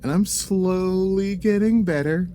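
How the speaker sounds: high, slow attempt at an Australian accent; mock Australian accent. Bragging to his cohost in a bad Australian accent. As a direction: stretch the vowels in a hopeful Australian try. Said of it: "That's what I want".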